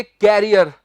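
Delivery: career said as "कैरियर", like carrier; common mispronunciation. Shown as a demonstration. Teacher showing learners a common error, mispronounced. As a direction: demonstrate the wrong "कैरियर" with an open "kae" start. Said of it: "जी, wrong".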